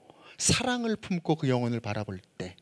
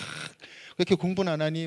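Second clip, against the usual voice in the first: slightly raised, softer mock scolding; retold nag at a child; imitated parental nagging; 4 semitones higher, 4 dB quieter than usual. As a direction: lightly act out a nagging parent. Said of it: "막 잔소리 막".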